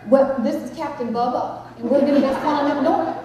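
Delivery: folksy Texas intercom voice; Texan pilot. Acted. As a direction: put on a Texan captain's accent. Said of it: "some of them must come from Texas".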